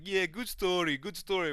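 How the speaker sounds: high, put-on simpleton-like cheer; Shamil. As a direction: imitate an oblivious stoned pal. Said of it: "He's like".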